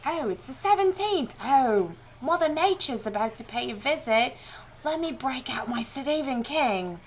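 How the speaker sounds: lively mock-British exclamation; playful pretend excitement; mock-dramatic announcement. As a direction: act out a hammed-up realization in British accent. Mock planner announcing her period.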